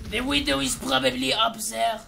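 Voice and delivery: mock-French sniper master; French-accented, self-assured tutor; put-on French accent. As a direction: lecture on sniping in a French accent.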